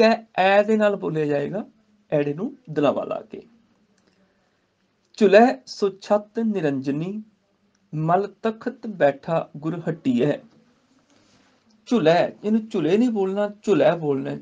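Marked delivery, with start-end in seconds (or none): 5.2-10.4 slow measured Gurbani recitation. Shown as a demonstration. Teacher recites the verse to students, slow. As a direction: chant each word with pauses.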